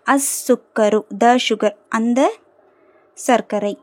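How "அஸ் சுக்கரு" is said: "அஸ் சுக்கரு" with double S, no L; careful model "அஸ் சுக்கரு", L unheard; lam silent. Shown as a demonstration. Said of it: "லாம் உச்சரிக்கப்படலை".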